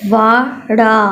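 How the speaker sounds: slow, drawn-out blended word; teacher saying the joined word; blended word read out. Shown as a demonstration. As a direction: join the syllables into one word for the class. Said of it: "reading करवा देती हूँ".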